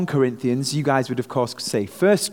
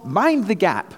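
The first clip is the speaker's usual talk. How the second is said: lightly imitated Underground announcement, slightly higher; recorded announcement; 4 semitones higher than usual. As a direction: mimic the recorded train voice a little. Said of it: "a recorded voice saying".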